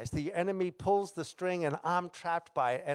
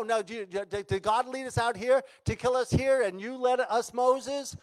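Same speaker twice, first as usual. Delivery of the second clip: higher-pitched mock complaining, rattled off fast; acted grumbling; 4 semitones higher, faster than usual. Israelites blaming Moses at the Red Sea, grumbling. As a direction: pile up the grievances like an imitated grumbler. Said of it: "they start grumbling".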